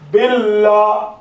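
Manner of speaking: باللہ with a light, thin lām after the i vowel; thin Allah. Shown as a demonstration. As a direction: say باللہ slowly, keeping the L thin. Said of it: "باللہ کو آپ باللہ نہیں پڑھ رہے". (باریک لام کے ساتھ آہستہ باللہ)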